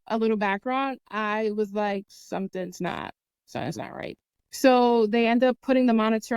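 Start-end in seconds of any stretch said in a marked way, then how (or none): 2.1-4.2 hushed, breathy whisper of alarm; retold anxious whisper; whispered worry. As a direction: barely voice it, scared something's wrong. Retelling fear during labour.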